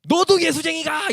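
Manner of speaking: high, slow, loud accusation; scolding old woman. Retold or imitated. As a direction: fling it out as an irate grandmother. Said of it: "할머니가 뭐라 하냐면은". (할머니가 호통치듯 높고 크게)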